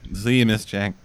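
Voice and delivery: a hint of the odd Venom trailer voice, pitched a touch low; Venom movie voice. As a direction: lightly mimic Tom Hardy's muddled Venom voice. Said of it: "What fucking voice is he trying to do".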